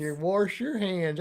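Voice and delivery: "wash" drawn out as "warsh"; regional pronunciation. Shown as a demonstration. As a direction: say "wash" with an r, slowly. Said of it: "And I wash my hands".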